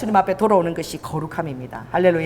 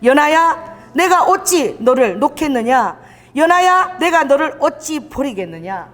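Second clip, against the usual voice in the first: pleading scripture reading; 4 semitones higher, slower than usual. Shown as a demonstration. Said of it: "자기 이름을 한번 넣어서 해보십시오".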